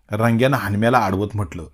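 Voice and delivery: usual speaking voice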